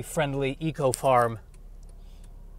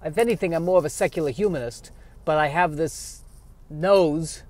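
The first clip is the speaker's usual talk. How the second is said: put-on kvetch it like an old Jewish uncle; Yiddish-accented squirrel; 3 semitones higher than usual. Squirrel character monologue.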